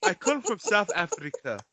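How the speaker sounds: hammed-up confusion, breaking into laughs; mock baffled listener. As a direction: play it as baffled, laughing through it. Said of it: "They'll be like".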